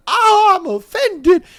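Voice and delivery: high, squeaky mock-offended lady voice; imitating the lady. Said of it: "and she's just like".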